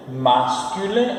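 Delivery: "Masculin" drawn out slowly; slow model pronunciation. Shown as a demonstration. Teacher models French for repeating students, slow demonstration. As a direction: stretch out "Masculin" for learners. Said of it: "você ficar repetindo quando eu tô falando".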